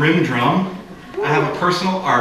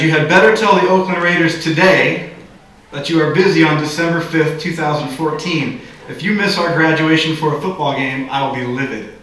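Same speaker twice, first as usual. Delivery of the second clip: emphatic all caps. Retold or imitated. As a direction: read it like shouted capitals. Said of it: "all caps for emphasis".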